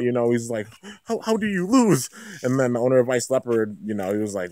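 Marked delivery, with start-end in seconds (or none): 1.0-2.1 high-pitched acted disbelief; higher, incredulous retold question; mock freaking out. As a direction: stammer it in imitation of a stunned fan. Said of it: "freaking out".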